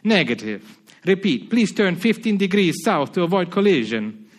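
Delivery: firmer put-on Spanish accent; Spanish operator repeating his warning, lightly accented. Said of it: "try to put on a Spanish accent".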